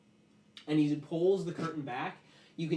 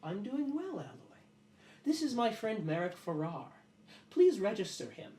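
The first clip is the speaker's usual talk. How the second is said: Lalo addressing creature; 5 semitones higher than usual. Acted.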